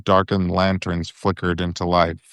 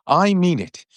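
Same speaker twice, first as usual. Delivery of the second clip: furious Ron; 8 semitones higher than usual. A narrator's reading. Ron threatening Malfoy.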